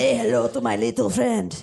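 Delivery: Scarface Cuban accent impression; a light Tony Montana Cuban accent. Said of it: "the best Cuban accent I've ever heard".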